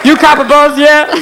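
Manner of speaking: high-pitched goofy roach voice; stoned cockroach. Acted. Cockroach to his buddy sniffing Raid, buzzed. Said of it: "two biggest cockroaches of all are standing by the refrigerator going".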